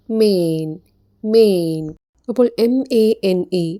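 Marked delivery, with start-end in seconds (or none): 0.1-1.8 മെയിൻ said as "mane" with a long ay, twice; pronunciation demo. Shown as a demonstration. Teacher shows students how to read മെയിൻ, clearly. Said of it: "ഈ വാക്ക് എങ്ങനെയാണ് വായിക്കേണ്ടത്".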